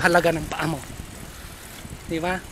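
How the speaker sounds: muffled by cloth mask; speaking behind covered mouth; through a face mask. Real, not acted. Seen 3: Black cloth mask covers nose and mouth throughout labelled words.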